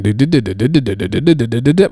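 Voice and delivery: rapid run of "do do do" syllables; babbled nonsense noise. Retold or imitated. Acting out what goes on in his head, rattled-off babble.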